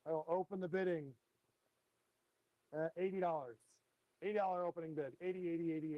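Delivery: steady auctioneer calling bids; auction bid spotter. Acted. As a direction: call out the bids, auction rhythm. Runs the live fish auction.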